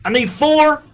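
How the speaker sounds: high, loud, hammed-up English accent; mock English accent. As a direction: put on a shrieky, over-the-top English voice. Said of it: "That's what people in England talk like".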